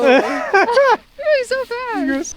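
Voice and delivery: excited shout; sledding downhill. Real, not acted. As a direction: call out the speed, amazed. Watching the sled ride.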